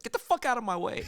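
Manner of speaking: loud, high shout at the strangers in his way; shoving past at the airport, loud and high; retold shout. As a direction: bark it out to clear the path. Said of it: "Out loud, I said".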